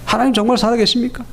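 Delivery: mock grievance against God, mildly voiced; acted complaint. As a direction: retell a frustrated man's protest, building a little. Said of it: "하나님께 원망하는 거예요".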